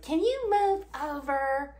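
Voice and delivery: imitating Shanny yelling at Rev from the back seat; mock yell. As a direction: snap it like a bossy nag. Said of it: "you were just yelling at him".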